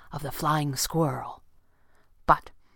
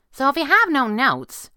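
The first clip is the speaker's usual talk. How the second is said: high, louder, coquettish lead-in; vamping tease; 9 semitones higher, 7 dB louder than usual. A narrator's reading. Girl needles her boss, vamping and high-pitched. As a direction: tease him with a little vamp. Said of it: "vamping a little and clearly teasing".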